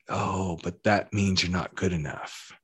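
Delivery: soft, hushed inner gremlin voice; gremlin whisper. Pretend. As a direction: murmur it like a doubting voice in your ear. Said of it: "a little gremlin voice that whispers in your ear".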